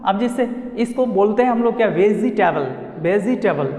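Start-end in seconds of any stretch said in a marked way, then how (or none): 1.9-3.7 "वेजिटेबल" said with an extra "ee", ve-zee-te-bal; "वेजिटेबल" in four syllables, ve-zee-te-bal; mispronunciation demo. Shown as a demonstration. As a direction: sound the second e in "वेजिटेबल" as a full "ee". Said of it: "जो गलत है completely".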